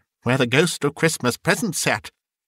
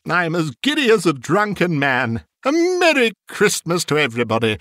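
high-pitched, giggly jubilant cries; giddy elation; 8 semitones higher than usual. A narrator's reading. Scrooge greets all the world, giddy and exultant. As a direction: build from laughing delight to whooping hellos. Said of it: "laughing and crying in the same breath".

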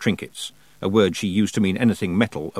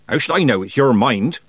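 put-on louder, higher, impatient old witch; snapping; 4 semitones higher, 6 dB louder than usual. A narrator's reading. Granny refusing to explain it to Tiffany, snapping. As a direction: throw the question straight back. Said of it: "snapped Granny".

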